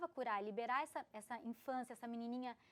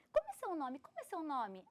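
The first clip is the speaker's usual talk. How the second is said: slightly raised, urgent repeated question; nervous questioning; 4 semitones higher than usual. Retold or imitated. Girl approaching a stranger, mildly nervous. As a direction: ask as if a little agitated. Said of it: "ela veio muito nervosa".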